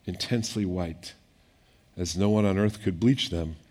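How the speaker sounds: measured reading of the gospel; scripture reading. Acted. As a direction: read the passage steadily to the congregation. Reads scripture aloud.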